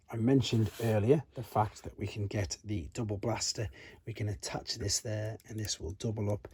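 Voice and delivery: ordinary delivery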